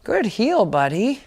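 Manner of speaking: dog praise. Real, not acted.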